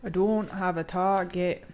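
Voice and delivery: slow, amateur go at a Scottish accent; rough Scottish imitation, drawn out; attempted Scottish accent. Shown as a demonstration. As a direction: try your best Scottish accent, not quite getting it. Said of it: "that's my best accent, guys, for, um, you know, the Scottish".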